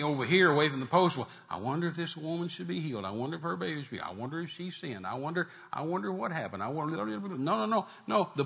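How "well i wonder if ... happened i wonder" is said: soft, wavering musing of a doubter; mock wondering. Preacher acting out doubters away from the post, softly wondering. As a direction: imitate someone dithering quietly in doubt.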